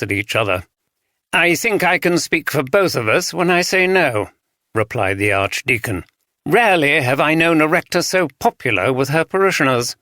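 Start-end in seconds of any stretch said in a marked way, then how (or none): 1.3-4.3 put-on refined RP accent. A narrator's reading. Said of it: "refined R P accent". 6.4-10.0 put-on refined RP accent. A narrator's reading. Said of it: "refined R P accent".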